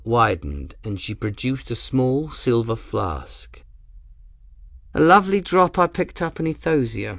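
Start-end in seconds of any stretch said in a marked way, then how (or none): 5.0-7.2 pleased lady's voice. A narrator's reading. Ransom showing her flask.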